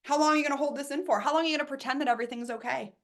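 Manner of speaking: fast, exasperated universe asking; voicing the universe. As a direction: rattle off the universe's questions. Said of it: "The universe is like".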